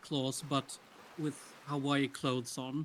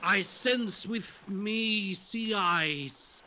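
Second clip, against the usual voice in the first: put-on slow, higher salty old sea dog; old pirate voice; 6 semitones higher, much slower than usual. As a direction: drawl it like a kindly old pirate. Old pirate surf instructor speaks.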